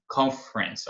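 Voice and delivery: "Conference" said as two syllables, CON-frens; reduced "Conference". Shown as a demonstration. Teacher showing learners how reduced "Conference" gets, as CON-frens. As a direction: drop the middle E and end "Conference" on an S sound. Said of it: "olha como fica reduzida".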